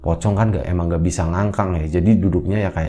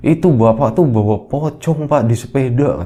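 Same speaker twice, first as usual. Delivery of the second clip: alarmed warning; 5 semitones higher, 3 dB louder than usual. Acted. Child warns father of ghost.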